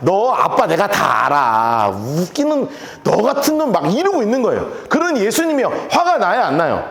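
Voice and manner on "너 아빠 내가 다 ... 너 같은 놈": drawn-out, scornful put-down; sarcastic jeering. Acted. Neighbour who knows his father, jeering sarcastically. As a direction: stretch it out with contempt. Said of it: "그러니까 빈정되는 거를".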